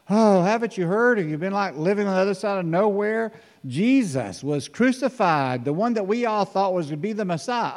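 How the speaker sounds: can't believe he hasn't heard; incredulous traveler. Acted. Disciples on the road amazed at the stranger, high incredulous.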